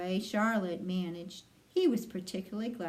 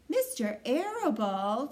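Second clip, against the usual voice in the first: sobbed; 4 semitones higher than usual. A narrator's reading. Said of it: "sobbed Wilbur".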